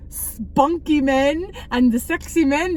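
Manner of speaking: slow, lightly imitated grandmother; grandmother's way of speaking. Granddaughter mimicking her grandmother on men she fancies, slow imitation. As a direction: draw out spunky, imitating grandmother. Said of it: "that's how she says it".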